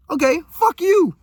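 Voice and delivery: mock fed-up clapback; defiant retort. Retorting again, breaking his console.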